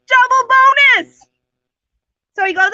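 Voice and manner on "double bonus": slow, loud and much higher gloating cry; gleeful gloat. Acted. Simba gloats about eating Rabbit and his wife. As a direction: relish the prize out loud.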